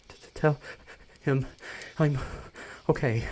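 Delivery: halting, breathless stammer; stammering panic. Acted. Harmonia hyperventilating, asking Adam to reassure Terminal, stammering panic. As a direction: fight for each word through panic. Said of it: "she starts hyperventilating".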